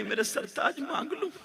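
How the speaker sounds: hushed, hesitant plea; timid soft question, acted; faltering voice. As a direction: ask very softly, lifting at the end. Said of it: "आवाज लड़खड़ा रही है".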